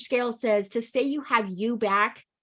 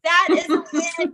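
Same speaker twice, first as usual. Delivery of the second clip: slow and louder, each word landed; emphatic celebration; 7 semitones higher, 5 dB louder than usual. Real, not acted. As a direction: make it a proclamation. Coach celebrates Deb's progress.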